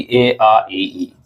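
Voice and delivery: ए आ ई ई spoken very slowly, each vowel held; slow dictation. Shown as a demonstration. Teacher dictating vowels for students to write, very slowly. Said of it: "आप लोग स्वर लिख दीजिए".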